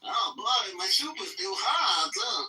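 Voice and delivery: high, drawn-out comic Jewish accent. Shown as a demonstration. Asked by the room to do a Jewish accent, high hammed-up Jewish accent. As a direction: stretch it out in an exaggerated Jewish accent. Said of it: "can you do a Jewish accent".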